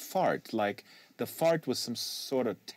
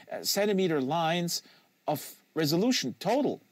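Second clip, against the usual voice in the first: a hint of a keen student reciting, pitched up; lightly voiced know-it-all; 7 semitones higher than usual. A boy answering Trelch's quiz, lightly pitched up. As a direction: rattle off the specs a little higher.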